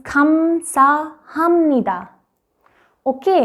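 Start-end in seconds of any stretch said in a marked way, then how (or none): 0.1-2.0 खमसाहामनिदा spoken slowly, syllable by syllable; Korean thank you. Shown as a demonstration. Teacher showing students the Korean thanks, slow and careful. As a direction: spell out खमसाहामनिदा slowly for learners. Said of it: "This one is".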